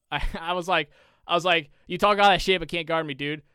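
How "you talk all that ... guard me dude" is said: taunting. Retold or imitated. Mocking the kid who talked trash, loud taunt. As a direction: rub it in his face. Taunting the opponent after scoring.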